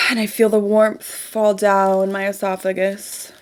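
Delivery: dreamy manifestation guide; guided visualization. Acted. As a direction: ease them into the exercise, gently.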